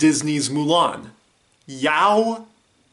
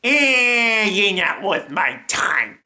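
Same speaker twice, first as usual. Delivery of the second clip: grudging, dismissive character voice; Yao; 5 semitones higher than usual. Acted. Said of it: "doing the voices and the lines".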